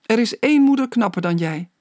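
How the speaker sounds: giggling. A narrator's reading. Tickled boy gives in to his mother, giggling. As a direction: beg for mercy, playfully. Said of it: "giechelde hij".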